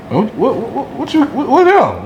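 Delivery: high mocking taunt, pitched well up; bully mocking new shoes, high taunting voice. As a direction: play the bully teasing his shoes in a high voice.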